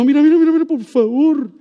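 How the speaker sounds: a hint of an exasperated judge; fed-up judge. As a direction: wave her off just to be left alone. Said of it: "que el juez dijo".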